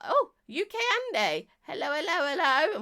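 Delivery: high, delighted call-out; excited greeting. Real, not acted. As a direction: spot a viewer and call them in high. Greeting viewers as they join.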